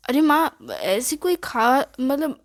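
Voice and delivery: slow, stumbling and caught out; flustered stammer. Acted. Son caught out by mother about a girl, flustered. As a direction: fumble for words, caught in a lie. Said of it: "तुम अटक रहे हो".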